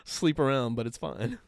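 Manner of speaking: put-on English accent, a bit classier; mock English. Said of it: "The English just do it a little".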